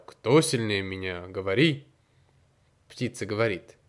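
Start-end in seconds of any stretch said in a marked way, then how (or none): 0.1-1.9 low growling demand; growling tiger voice. Acted. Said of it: "Тигр зарычал".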